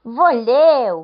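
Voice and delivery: high, loud startled cry of a village woman; frightened gasp. Acted. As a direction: shriek it out in alarm, hand to mouth. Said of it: "făcu femeia ... înfricoșată". (femeia strigă speriată, tare și subțire)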